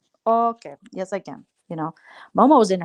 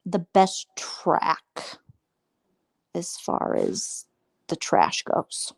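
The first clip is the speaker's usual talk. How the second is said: whisper; 3 dB quieter, much slower than usual. Real, not acted. Confiding to the chat, hushed whisper. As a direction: drop to a secretive whisper. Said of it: "drops to whisper".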